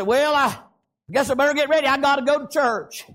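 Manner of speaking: understated grudging churchgoer; half-hearted, dutiful resignation; reluctant pout. Acted. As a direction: say it like going is a chore. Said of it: "not a pout".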